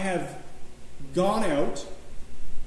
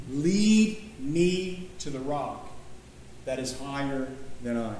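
each word drawn out slowly, lingering on lead; slow meditative reading; 4 semitones lower, 4 dB quieter, slower than usual. Shown as a demonstration. Preacher to congregation, reading slowly word by word. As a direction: savour every word as in Lectio Divina. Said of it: "do a very quick version of this".

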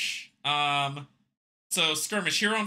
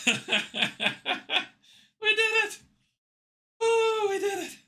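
shrieking jackpot winner. Real, not acted. Celebrating the win.

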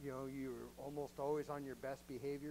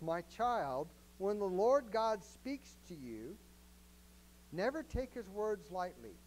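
scripture reading; 3 semitones higher, 3 dB louder, slower than usual. Shown as a demonstration. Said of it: "verse eleven says this".

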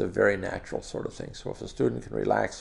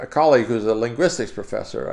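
ordinary talk, nothing marked

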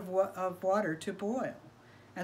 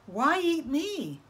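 innocent rabbit; 8 semitones higher, slower than usual. Acted. Rabbit tricks coyote.

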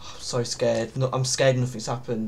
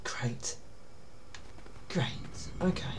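sarcastic; 13 dB quieter than usual. Real, not acted. Sarcastic about attic.

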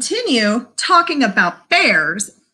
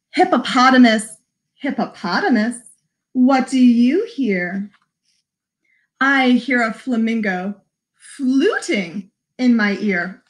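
picture-book read-aloud. Acted. Reads picture book to children.

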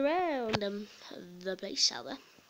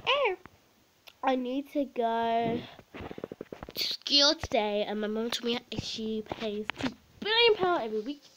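posh pupil. Pretend. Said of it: "one that's a bit posh".

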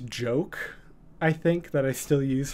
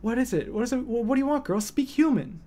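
high pet-talk voice; talking to the cat; 9 semitones higher than usual. Retold or imitated. Owner asking the meowing cat what she wants, high pet voice. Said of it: "I'm like".

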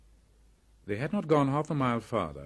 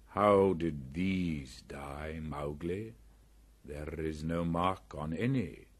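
panther voice; 2 semitones lower, slower than usual. Acted. Bagheera questions Mowgli.

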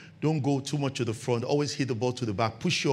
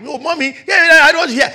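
put-on high whiny child reply; child protesting; 16 dB louder than usual. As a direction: answer back like a sulky kid. Child answering mother.

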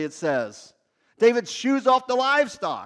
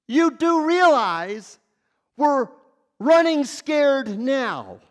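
incredulous men; 3 semitones higher, 3 dB louder than usual. Acted. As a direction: push back, stretching out each word. Men balk at David's plan.

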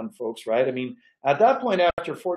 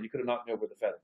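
softer, lower, letting "knocked" land; quieter emphatic repeat; 5 semitones lower, 8 dB quieter, much faster than usual. Real, not acted. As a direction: drop the voice to stress the shock.

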